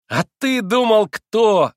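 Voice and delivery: loud, high and triumphant; ringing, happy shout. A narrator's reading. Boy revealing the found dog, ringing happy yell. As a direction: cry it out happily with full force. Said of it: "звонким, счастливым голосом изо всей силы завопил Красоткин".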